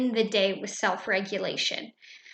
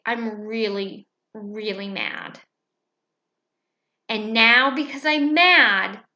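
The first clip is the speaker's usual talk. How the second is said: disappointed teacher. Shown as a demonstration. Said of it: "I will say".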